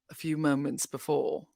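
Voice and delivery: hammed-up somber news read; lightly imitating a pompous anchor; mock solemn newscaster.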